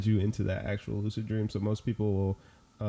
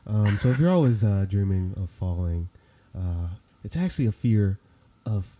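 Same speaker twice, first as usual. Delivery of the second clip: therapist voice; 4 dB louder than usual. Pretend. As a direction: play the calm therapist explaining a dream. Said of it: "we gotta pull out the therapist voice".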